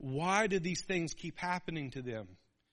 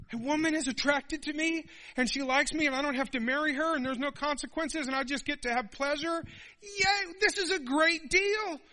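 much higher, giddy and loud; higher giddy fool, cracking with glee; gleeful idiot; 10 semitones higher, 4 dB louder than usual. Retold or imitated. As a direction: squeal with foolish delight. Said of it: "but he's an idiot".

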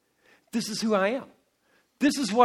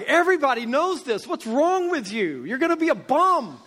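mock exasperated father, higher; impatient dad; 4 semitones higher than usual. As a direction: scold the little kid in jest. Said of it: "It was like".

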